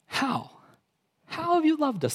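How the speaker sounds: mock the promise with doubt; sarcastic disbelief. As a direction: Israel scoffing at God's love, sarcastic. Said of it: "They're thinking".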